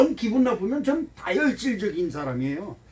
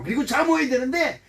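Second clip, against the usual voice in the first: ordinary delivery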